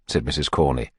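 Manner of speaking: usual speaking voice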